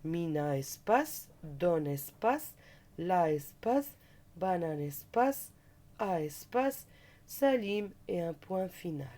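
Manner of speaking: slow dictation with each word spaced out; dictating slowly. Shown as a demonstration. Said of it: "recopier la phrase en séparant les mots". (dictée lente, mot par mot)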